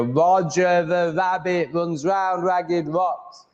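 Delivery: Roger the rabbit runs round ragged rocks slow with open R; slow articulated. Shown as a demonstration. Reminding himself of the drill, slow and clear. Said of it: "I need to do what I just did".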